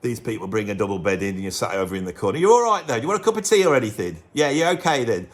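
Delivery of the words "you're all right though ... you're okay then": lightly voiced fussy singer, fussing politely; a hint of a chirpy Liverpool musician; impression of a singer. The singer fussing over his partner in the studio, lightly voiced. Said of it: "I'm being Paul McCartney".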